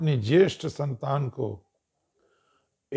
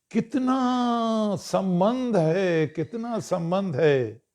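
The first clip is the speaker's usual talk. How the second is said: awed exclamation; 5 semitones higher, slower than usual. Real, not acted. Marvels at bond with creatures.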